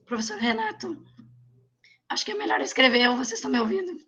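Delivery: croaky voice after a cough; hoarse voice. Real, not acted. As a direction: push words through a sore throat. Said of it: "Eu tô com a voz rouca".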